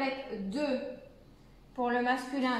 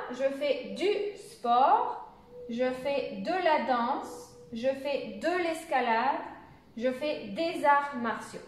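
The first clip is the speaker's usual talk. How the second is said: slow list of example sentences; slow model recitation; slower than usual. Shown as a demonstration. Teacher repeats the examples for beginners, slow and deliberate. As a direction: recite each example slowly, pausing between them.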